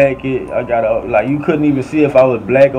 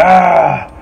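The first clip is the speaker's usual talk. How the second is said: short, raised yell; mock battle cry, a little louder and higher; attack yell; 5 semitones higher, 4 dB louder than usual. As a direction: yell as if charging at someone. Acting out his charge at her.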